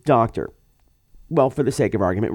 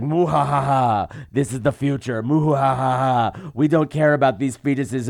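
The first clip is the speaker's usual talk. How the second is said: hammed-up villain laugh. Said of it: "playing the villain so hard".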